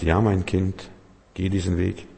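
calm it down like a kind father; gentle Spirit. Acted. (sanfter Geist, leiser und zärtlich)

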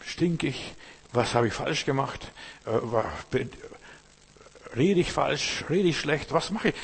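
bewildered self-questioning. Retold or imitated. Preacher voicing a rejected believer, rising bewildered questions. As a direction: plead like someone everyone has turned away from. Rejected person asks what's wrong.

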